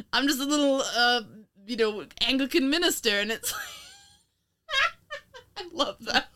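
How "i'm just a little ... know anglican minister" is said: lightly voiced meek English minister; a hint of a nasal old clergyman; nasally minister voice. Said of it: "slightly nasally voice of".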